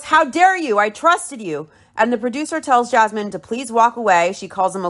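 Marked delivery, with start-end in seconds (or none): 0.0-1.7 indignant retold outburst, starting high; mildly hammed-up indignant quote; mock yell. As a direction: imitate an outraged yell, easing off at the end. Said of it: "She yells".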